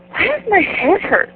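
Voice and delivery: high pained whine; hungover whine. Retold or imitated. Hungover in the shower, high whiny complaint. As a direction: whine it up high, head pounding. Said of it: "and I'm going".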